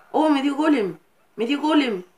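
high, bright delighted exclaim; happy gamer reaction; excited surprise. Real, not acted. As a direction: react to the golem with glee.

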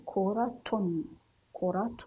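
كرة ending in a clear "tun"; كرة said "kuratun", the final n voiced; tanween with noon. Shown as a demonstration. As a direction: finish كرة on a sounded n. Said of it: "ولكن نخرج معه حرف النون".

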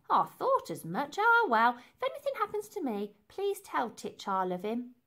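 dramatic lady. Acted. Lady fearing death.

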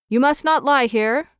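lightly voiced watchman's shout; mild shout. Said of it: "shouted the watchman".

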